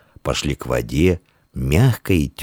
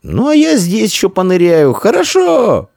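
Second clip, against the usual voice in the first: very high, louder shout; calling back; 5 dB louder than usual. Acted. Boy staying to dive answers his friend, calling out. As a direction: holler back to a friend far off. Shouts reply across river.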